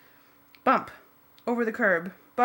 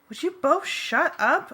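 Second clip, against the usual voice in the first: higher, sharp exasperated demand; 8 semitones higher, 4 dB louder than usual. A narrator's reading. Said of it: "I demanded".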